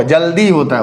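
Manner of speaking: जल्दी with the final ई held long; long final vowel. Shown as a demonstration. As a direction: stretch the दी in जल्दी. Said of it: "ज़्यादा देर तक का sound".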